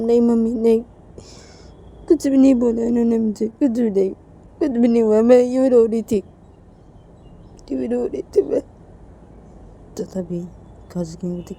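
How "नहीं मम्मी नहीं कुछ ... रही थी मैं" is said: put-on higher-pitched, plaintive girl voice; high, whiny child's denial; pleading Reshma. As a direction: deny it to mother in a high little voice.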